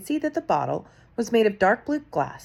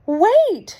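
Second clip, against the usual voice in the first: much higher, loud shrieking cry; 14 semitones higher, 9 dB louder than usual. A narrator's reading. Witch in the back row stops the crowd, shrieking. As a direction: shriek it out to stop everyone. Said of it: "she shouted again".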